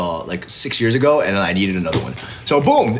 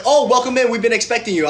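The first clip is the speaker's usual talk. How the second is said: hotel clerk voice; 9 semitones higher than usual. Retold or imitated.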